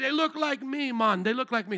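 preacher imitating a Kenyan brother's accent; Kenyan accent attempt. A hint of a Kenyan accent. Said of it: "I'm trying an accent here".

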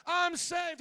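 high, full-force preacher's shout; loud, high, drawn-out cry of victory. Shown as a demonstration. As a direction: shout it out to rally the congregation. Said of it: "You should be shouting".

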